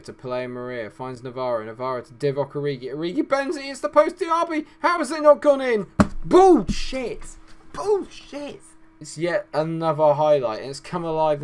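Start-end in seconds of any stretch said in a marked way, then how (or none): 2.9-5.9 excited scream. Real, not acted. Near miss in own game. 6.2-8.6 furious shout. Real, not acted. Shot hits post, fury.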